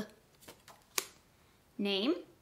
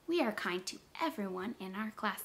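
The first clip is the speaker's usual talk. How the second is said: much softer repeat; soft echo; 8 dB quieter than usual. Shown as a demonstration. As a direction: say it back gently and quietly. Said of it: "repeat the sentence just like I said it".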